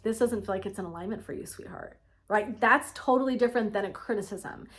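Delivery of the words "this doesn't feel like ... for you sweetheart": loving gentle note. Retold or imitated. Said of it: "someone's lovingly saying to you".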